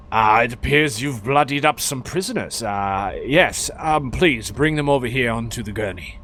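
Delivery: lightly voiced formal doctor; Doctor Thradinix. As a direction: play a doctor politely directing visitors. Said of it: "he's just gonna respond and say".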